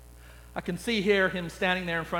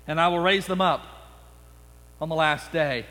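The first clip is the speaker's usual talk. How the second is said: solemn scripture voice. Acted. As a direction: let the last words sink to a hush. Jesus quote.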